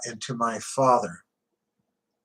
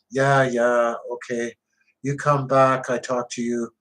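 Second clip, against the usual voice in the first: a light hint of an Italian accent; just a touch of an Italian accent, calm and unbothered; little Italian accent. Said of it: "he says with a little Italian accent".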